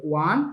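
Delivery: ওয়ান as a separate digit, rising at the end; teacher demonstrating ওয়ান as a lone digit; digit-by-digit reading. Shown as a demonstration. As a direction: model ওয়ান on its own, left hanging. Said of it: "এটাকে উচ্চারণ করতে হবে এভাবে".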